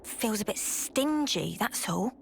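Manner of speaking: low, slightly sulky grumble; mild grumbling. Acted. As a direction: grumble a little under your breath. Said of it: "Hey, no grumbling".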